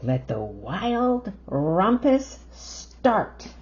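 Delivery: drawn-out royal decree; slow grand command. Acted. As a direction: announce it slowly like a king. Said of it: "cried Max".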